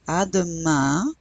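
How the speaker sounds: slow "À demain" with a nasal final vowel in "demain"; slow «À demain» with a nasal ending; slow nasal model. Shown as a demonstration. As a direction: stretch "À demain" so the nose vowel is heard. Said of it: "Un is another nasal vowel".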